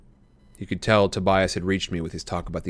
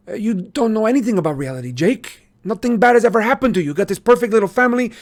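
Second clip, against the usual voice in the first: heated outburst; 12 semitones higher, 7 dB louder than usual. A narrator's reading. Marco's outburst in story.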